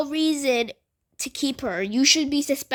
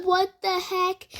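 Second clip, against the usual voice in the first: startled what the heck; 7 semitones higher, slower than usual. Retold or imitated. Shocked at three-week suspension.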